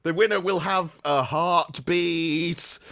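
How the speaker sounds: slow mock prophecy; Septic Peg. Comedian spoofing a lottery psychic, slow and mock-portentous. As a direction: draw out a vague prediction portentously. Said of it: "the vaguest of predictions".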